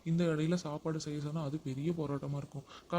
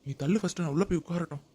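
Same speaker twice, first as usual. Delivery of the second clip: louder, curt order; angry order; 5 dB louder than usual. Acted. Husband ordering wife out of his way, angry. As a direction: push past her with a sharp command.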